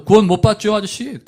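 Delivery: put-on a zealous young evangelist's retort; spirit-filled confidence. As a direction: answer boldly, full of the Spirit. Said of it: "성령에 충만했거든요".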